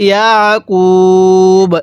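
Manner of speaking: ইয়াকুব, slow, with a light squeeze in the throat on the আইন; throat-pressed ain. Shown as a demonstration. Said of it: "আইনটা পড়ার সময় গলার মধ্যে হালকা চাপ দিয়ে পড়লে".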